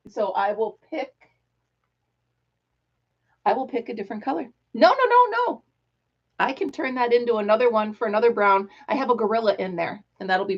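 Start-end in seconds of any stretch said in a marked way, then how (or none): 4.7-5.6 very high, rapid string of nos; quick no no no. Real, not acted. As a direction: stop yourself mid-thought. Sudden change of plan.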